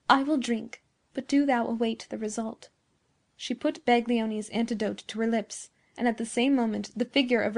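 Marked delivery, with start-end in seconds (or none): 0.1-2.7 "I will drink" given deliberate emphasis; peculiar emphasis. A narrator's reading. Beatrice answering Giovanni, a touch of peculiar emphasis on "I will drink". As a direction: lean lightly on "I will drink". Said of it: "with a peculiar emphasis".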